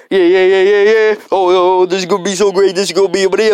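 loud, excited worker voice; pumped and loud; hyped up. Acted.

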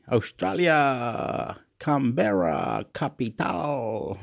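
slow, playful roll-call of places; drawn-out place names. Pretend. Vlogger reeling off South American place names, slow and drawn-out. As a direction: stretch each name out slowly, savouring the vowels.

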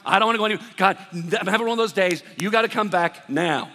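loud, fed-up prayer; exasperated plea. Acted. Worn-out parent begging God to return, loud exasperated plea. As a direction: plead with God, at the end of your rope. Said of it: "asking for the Lord to come back".

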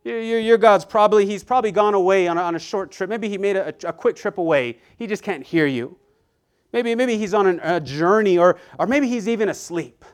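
loud, high sarcastic taunting; mocking taunt. Preacher voicing Elijah taunting the prophets of Baal, loud mocking. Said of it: "He began mocking them".

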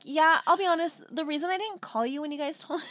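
lightly voiced tipsy honesty; a hint of drunken earnestness; imitated drunk friend. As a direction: do a mild impression of a drunk friend confessing. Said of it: "so funny how you talk when you're drunk".

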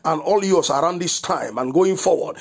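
firm, rolling prophetic declaration over the listeners. Acted. Pastor prophesying protection over his listeners, in a firm declaring voice. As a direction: declare it with a preacher's authority.

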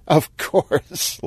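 high, lightly amused reply; flirty party laugh. Acted. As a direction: say it through a small laugh. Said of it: "laughed Sheila".

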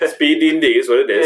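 amused laughing delivery. Real, not acted. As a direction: chuckle it out fast. GM laughing at his joke.

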